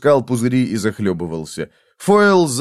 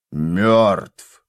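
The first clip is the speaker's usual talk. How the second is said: low growl; 4 semitones lower than usual. Acted. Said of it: "прорычал он".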